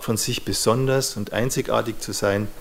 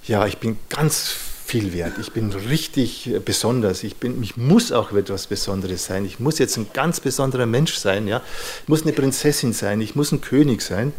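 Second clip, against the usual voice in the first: inflated self-worth voice. Retold or imitated. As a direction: play up a desperate grandiose insistence, building. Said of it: "wie so ein".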